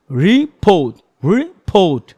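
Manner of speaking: রিপোর্ট split into syllables with a small pause inside. Shown as a demonstration. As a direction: break রিপোর্ট into ri-port, a slight gap between them. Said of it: "প্রত্যেকটি সিলেবলও কিন্তু pause আছে". (সিলেবলের মাঝে ছোট বিরতি দিয়ে রিপোর্ট)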